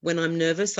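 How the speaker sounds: ordinary talk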